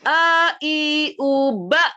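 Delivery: teacher drilling hamzah; deep hamzah drill. Shown as a demonstration. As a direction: clear throaty "A", "i", "u". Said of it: "dia dalam karena dia te".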